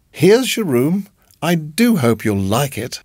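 a hint of a doting hostess; sweet landlady. A narrator's reading. Landlady voiced by narrator.

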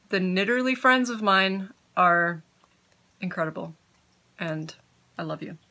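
talking while chewing; words round a mouthful of candy; mouth full. Real, not acted. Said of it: "I'm trying not to talk with my mouth full".

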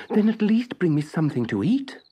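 high, begging puppet voice; pleading. A narrator's reading. Starving Pinocchio pleads with the snail for food. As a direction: beg for something to eat. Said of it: "pleaded the puppet".

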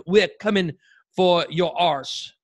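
hammed-up fake British accent, dragging out arse; a deliberately terrible British accent, slow on the last word; bad British accent. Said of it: "Is that the worst British accent ever".

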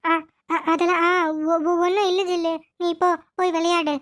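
halting, choked-up words through tears; trying to hide the crying from the child; tearful stammer. Acted. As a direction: grandmother stammering while crying. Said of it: "அப்புறம் ஏன் பாட்டி இப்படி அழுற?".

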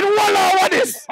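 high, strained mock protest. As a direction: ham up the rival fan. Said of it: "I said".

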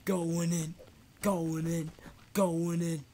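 soft, dropped-volume "going in"; quiet announcement. Pretend. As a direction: repeat it softly to yourself. Repeats phrase at changing volume.

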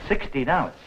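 startled echo of the price, pitched high; can't believe the number; sixty dollars, shocked; surprised. Acted.

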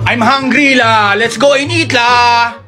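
Singlish. Shown as a demonstration. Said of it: "Just put la at the end".

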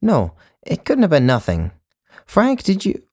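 loud, high, urgent plea; desperate appeal to a colleague; pleading. A narrator's reading. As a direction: call out for backup.

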